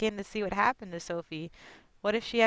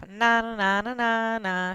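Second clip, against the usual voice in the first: put-on taunting child; 4 semitones higher, 4 dB louder than usual. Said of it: "she laugh".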